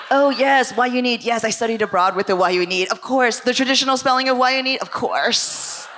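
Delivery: overeager woke white lady. Retold or imitated. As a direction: gush like she's an expert on it. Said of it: "the most woke white lady".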